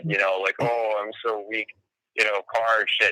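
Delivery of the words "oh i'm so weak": mock wounded. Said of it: "she plays that wounded".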